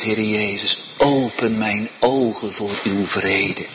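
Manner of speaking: preacher voicing the sinner's prayer to Jesus. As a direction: pray it aloud for the listener.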